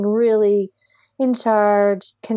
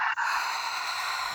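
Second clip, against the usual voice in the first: breathy exhale; 13 dB quieter than usual. Shown as a demonstration. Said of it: "Big deep breath".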